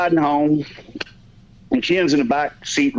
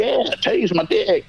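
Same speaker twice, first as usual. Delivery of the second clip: put-on higher, drawn-out drunken insistence; mock drunk pleading, pitched up and slow; drunk friend; 6 semitones higher, slower than usual. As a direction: imitate an eager drunk, stretching the words. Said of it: "he's all fucked up".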